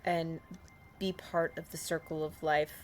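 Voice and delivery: measured, solemn in-character appeal; formal plea. Acted. Player pleading with the fish for safe passage, formal plea. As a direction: speak it as a slow, careful petition.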